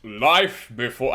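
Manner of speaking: heroic voice. Pretend. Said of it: "in your most heroic voice".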